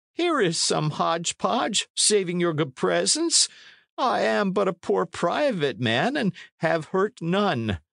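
put-on high-pitched pleading old man; cringing cry. A narrator's reading. Poor man denying the knight's charges, high and pleading. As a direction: protest innocence in a high, cringing voice. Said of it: "the man cried".

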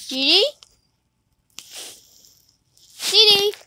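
calling her name loudly. Real, not acted. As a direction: call out across the house. Calling out to Didi.

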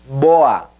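BOA as "BOH-ah"; Portuguese pronunciation. Shown as a demonstration. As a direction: stress the o in BOA, light final a.

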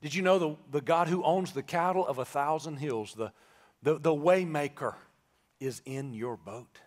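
low, soft preacher's comfort; solemn, reassuring preaching. Real, not acted. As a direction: bring it down and reassure them gently.

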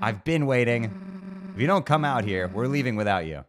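impatient friend yelling through the door; impatient threat. Acted. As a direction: threaten to leave without them.

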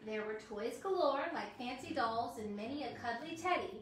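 storybook reading for little ones; reading to children. Acted. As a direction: read it like a bedtime story. Reads a children's book aloud.

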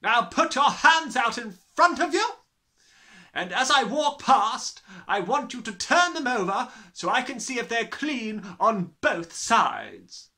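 high, very loud orders; commanding headmistress. A narrator's reading. Headmistress ordering a hand inspection, commanding. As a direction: order them about at full volume.

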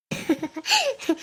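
wordless crying sobs; acted sobbing. Frightened shopper as others soothe her, sobbing. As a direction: keep sobbing helplessly. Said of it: "ಅಳ್ಬೇಡಿ, ಅಳ್ಬೇಡಿ".

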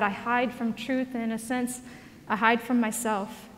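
soft, reflective quoted reading; reading a confession. Acted. Preacher reads author's confession aloud, soft and reflective. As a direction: read it like a quiet confession.

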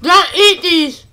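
talking while drooling, mouth burning. Real, not acted. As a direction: speak around a mouthful of spit. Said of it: "I'm drooling everywhere".

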